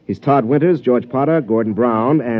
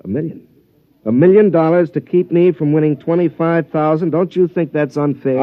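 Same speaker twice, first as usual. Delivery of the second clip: indignant outburst; 6 semitones higher, 4 dB louder than usual. Acted. Golfer protests rival's costly robot.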